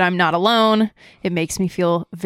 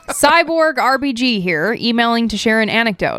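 anxious butler robot; 3 semitones higher than usual. Pretend. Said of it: "read it in a robot voice".

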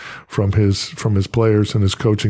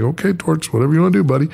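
mock resigned; 5 semitones higher, faster than usual.

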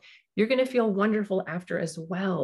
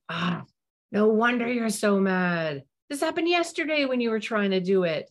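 put-on really mean it, feel with the child; genuine empathy; 4 semitones higher than usual. Shown as a demonstration. Parent truly empathising with a frustrated child, sincere. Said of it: "a genuine moment of".

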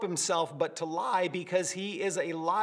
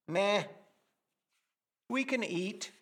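unimpressed shrug of a reply, softer at the end; bland meh; 3 dB quieter than usual. Retold or imitated. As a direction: toss it off as if it barely matters. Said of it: "is a bland".

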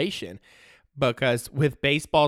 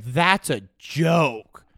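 slow, loud dismissive quote; A J Hinch; 3 dB louder, much slower than usual. Retold or imitated. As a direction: brush it off slowly. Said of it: "A J Hinch was verbatim".

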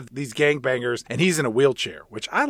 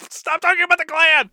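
higher, laughing outburst; laughing exasperation; 13 semitones higher, 4 dB louder than usual. Real, not acted. Host fed up with the film, higher laughing outburst. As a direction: beg the movie to stop, laughing.

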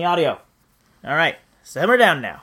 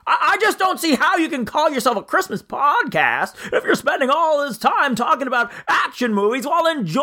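higher, stammering James Stewart voice; George Bailey impression; 5 semitones higher than usual. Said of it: "I forgot how to do the voice".

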